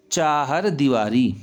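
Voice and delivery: चाहर with long chaa, short har; long first vowel. Shown as a demonstration. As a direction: slowly stretch the first syllable of चाहर दीवारी. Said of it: "और इसको क्या लिखेंगे हम?".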